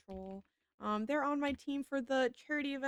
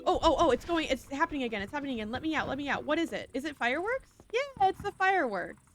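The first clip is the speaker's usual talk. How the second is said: startled by game fireworks, then excited; excited surprise; 4 semitones higher than usual. Real, not acted. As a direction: burst out startled then thrilled.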